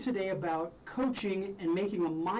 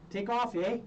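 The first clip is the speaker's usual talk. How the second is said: put-on Canadian accent; 4 semitones higher than usual. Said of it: "my little Canadian accent".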